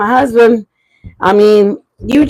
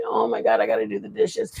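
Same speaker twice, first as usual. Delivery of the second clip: mock complaining; 12 semitones lower, 12 dB quieter than usual. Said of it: "I was all complaining".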